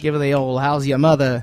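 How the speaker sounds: lightly put-on Cockney; rough amateur imitation of Cockney; mock Cockney accent. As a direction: toss off a comic Cockney catchphrase. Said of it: "I think the Cockney accent".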